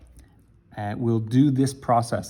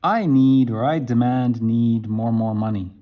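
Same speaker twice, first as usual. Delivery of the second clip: loud, clumsy word-by-word demand; broken demanding English; 5 dB louder than usual. Shown as a demonstration. Teacher acts out a learner asking someone for money, clumsy. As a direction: blurt it like a learner who can't find the words. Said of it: "they would think you were nuts".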